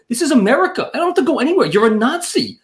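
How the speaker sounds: high-pitched, indignant mock yell; half-shouted retelling of a defiant outburst; retold yell. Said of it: "at this point, I yelled to him".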